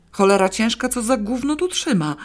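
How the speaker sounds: Paweł cursing the box stuck on his foot; furious grumble. A narrator's reading. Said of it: "mamrotał wściekły Paweł".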